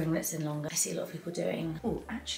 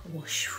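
breathy imitated whoosh; whooshing noise. Shown as a demonstration. Showing viewers the swish as you pass, imitated whoosh.

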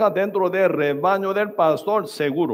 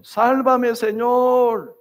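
crying out; 5 semitones higher, much slower than usual. Acted. Preacher voices drowning Peter calling to the Lord, crying out. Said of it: "al final él grita".

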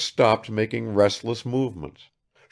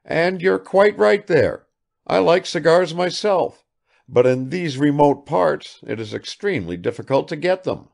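put-on eager old host; 8 semitones higher, 5 dB louder than usual. Vassily agreeing with Arkady.

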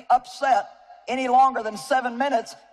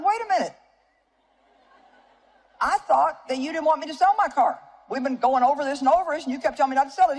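higher-pitched startled protest; retold surprise; 3 semitones higher than usual. Wife catches husband contradicting himself, startled protest. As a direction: pull him up short, higher, caught off guard. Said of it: "I said".

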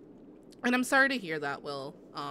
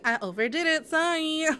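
mock apology; 7 semitones higher, 5 dB louder than usual. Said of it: "you're like".

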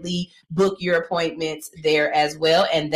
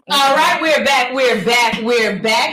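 hype shout; 3 semitones higher, 6 dB louder, slower than usual. Real, not acted. Host hypes return from break.

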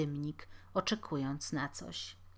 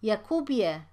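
calling up; 3 semitones higher, 6 dB louder than usual. Acted. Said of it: "zawołał bednarz".

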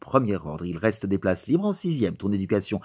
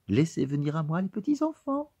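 pious pedant; 6 semitones higher, 6 dB quieter than usual. Acted. Teacher quoting scripture.

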